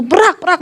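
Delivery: short high-pitched crash noises by mouth; imitated crash. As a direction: mimic the car hitting the ground. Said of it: "mobil kami jatuh". (tiruan bunyi mobil terbanting)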